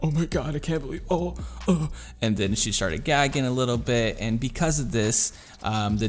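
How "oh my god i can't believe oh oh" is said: high, horrified mock gasping; freaking out, not screaming. Friend reacting to blood on her lip, freaking out. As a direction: imitate her grossed-out panic without yelling. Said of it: "not screaming, but just like".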